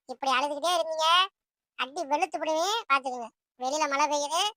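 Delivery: firm warning, punching the openings; stern mother. Acted. Mother sends crying children off to study, stern. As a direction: warn the children off firmly.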